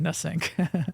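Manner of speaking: nasync said as "nuh-SINK"; joking mispronunciation. Shown as a demonstration. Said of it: "just like you say".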